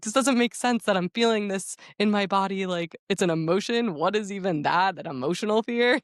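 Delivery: mock-confused, rising into a question; mock bafflement. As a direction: puzzle it out in a high put-on voice. Voicing men baffled by emotions.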